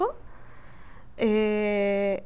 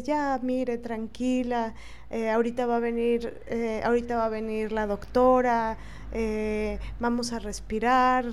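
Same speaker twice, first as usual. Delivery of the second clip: softer, soothing words to a patient in pain; calm her down gently; retelling comforting a woman in pain, tender and soft; 4 dB quieter than usual. Retold or imitated. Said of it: "le empecé a hablar con ternura".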